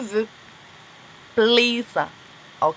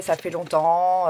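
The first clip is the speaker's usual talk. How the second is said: slow, strained hoarse voice; sore throat voice; 4 semitones lower, slower than usual. Real, not acted. Greeting the girls with a sore throat, slow hoarse. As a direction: push it through a swollen throat. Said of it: "J'ai vraiment une voix bizarre là".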